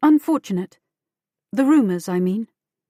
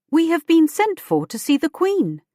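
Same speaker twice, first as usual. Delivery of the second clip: high, raised indignant protest; 8 semitones higher than usual. A narrator's reading. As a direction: object sharply, voice pitched up. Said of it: "Elizabeth protested".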